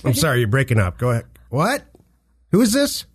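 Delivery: pretending the line breaks up, high and loud; dodging a caller. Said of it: "You're in your car".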